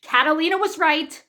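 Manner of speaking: broken bursts with gaps between phrases; too frantic to form full sentences; flustered, fragmented speech. Retold or imitated. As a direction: blurt it out in scattered fragments. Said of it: "can't even get my words together".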